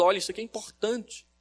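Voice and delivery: exclamatory demo stressing "Olha"; exclaiming. Shown as a demonstration. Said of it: "você falar algo exclamando".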